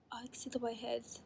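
fast, hushed whisper of discovery. Real, not acted. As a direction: whisper it as you lean in. Peering closely at the strip.

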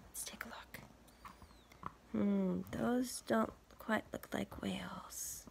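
hushed and unhurried. Real, not acted. Aside about pictures.

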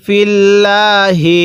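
"ফিল্লাহি" slow, with doubled l and the final হি sounded; don't clip "ফিল্লাহি" to ফিল্ল; full ending. Shown as a demonstration. Teacher warns students, "ফিল্লাহি" chanted in full. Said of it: "ফিল্ল পড়ব না".

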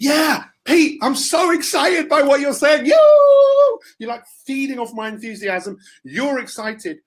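high, shouting excited fan voice; mock excited fan. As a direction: ham up an overexcited listener. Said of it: "it's not about being excited".

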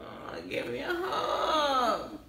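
crying through the words, slow; real tears asking for a hug; choked up with gratitude; teary. Real, not acted. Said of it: "let me wipe my tears".

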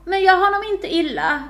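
high, strained order from a wounded man; wounded king's plea; weak command. A narrator's reading. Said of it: "beordrade kungen svagt".

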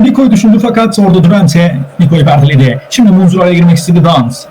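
football commentator's running call; steady, projected sports commentary; live play-by-play. Real, not acted. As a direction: call the match as it unfolds.

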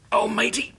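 soft, fading murmur into sleep; half-asleep sighs; drowsy murmur. Acted. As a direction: let it drift away as you doze. Drifting off to sleep.

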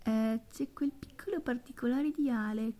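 unvoiced whisper, like a secret. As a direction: breathe it as a quiet aside. Confiding aside to friends.

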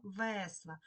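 весла with the first-syllable Е stressed, slow. Shown as a demonstration. Teacher answering which word checks spelling, весла stressed on Е. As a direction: lean slowly on the Е in весла. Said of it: "Де звук Е під наголосом".

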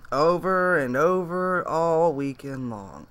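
slow, drawn-out mock reading of the chat line; a light parody of Kathy's read; imitating Kathy. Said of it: "I like how Kathy did that".

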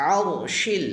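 আরশিল with the first sound from deep in the throat; careful Arabic ayin opening আরশিল. Shown as a demonstration. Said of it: "উচ্চারণ করবো ভিতর থেকে".

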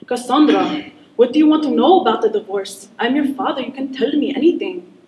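put-on dad speaking with an Arab accent. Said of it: "my dad has a very thick Arab accent".

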